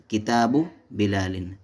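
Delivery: किताबु with short final "u", no n; no tanween on किताबु. Shown as a demonstration. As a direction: end किताबु on a bare u before बिलालिन. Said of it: "सही क्या है?".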